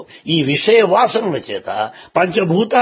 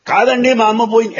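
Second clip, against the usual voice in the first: a hint of a sobbing child, pitched up and louder; lightly voiced grieving boy; 7 semitones higher, 4 dB louder, faster than usual. Boy insisting to the old man that his mother is gone, mildly tearful. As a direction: plead it like a boy who lost his mother. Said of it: "పడి ఏడుస్తున్నాడు".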